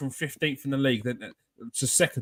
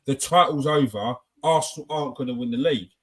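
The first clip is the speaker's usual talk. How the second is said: mock know-it-all; 3 semitones lower than usual. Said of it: "they say it like".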